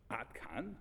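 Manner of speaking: a hushed, doubting "that's it?"; incredulous whisper. Retold or imitated. Students whispering doubt at their teacher's blessing. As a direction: whisper it, half in disbelief.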